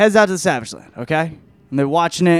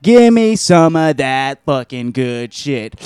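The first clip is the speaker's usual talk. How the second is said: slow, louder, drawn-out greedy demand; mock craving; 5 dB louder, slower than usual. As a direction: draw it out like a hammed-up addict. Voices woman craving the drug.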